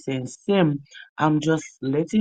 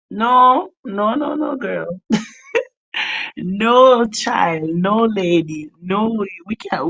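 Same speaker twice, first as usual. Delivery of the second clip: loud playful refusal; 6 semitones higher, 6 dB louder, slower than usual. Real, not acted. Streamer refusing friend Simone's idea, loud and high.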